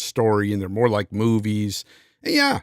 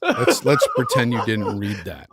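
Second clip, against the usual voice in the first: laughing shout. Real, not acted. Laughing, embarrassed by chat.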